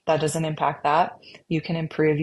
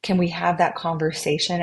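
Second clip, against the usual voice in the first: gentle curious questioning; 3 semitones higher than usual. Retold or imitated. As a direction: coax the scared voice to open up. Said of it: "getting to know that harsh voice".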